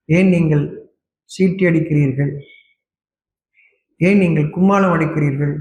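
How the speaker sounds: measured literary Tamil oratory; formal preaching. Real, not acted. Preacher asking worshippers why they have not honoured God, formal measured oratory. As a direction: put each rhetorical question deliberately, with pauses between.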